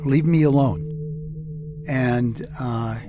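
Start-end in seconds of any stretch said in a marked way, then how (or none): 0.0-0.8 put-on higher, broken pleading child; a scared little boy begging to be left alone; frightened child pleading. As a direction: beg the bully to stop, voice up high. Young Gus pleading with bully.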